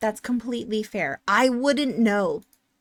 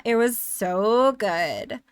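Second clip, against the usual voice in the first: vocal fry; much slower than usual. Shown as a demonstration. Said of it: "a little bit of a vocal fry".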